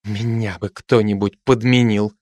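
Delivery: mild grumble of displeasure; displeased. Acted. Zinaida grumbling as Sasha leaves, mildly displeased. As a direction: let the envy show, understated. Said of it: "с явным недовольством".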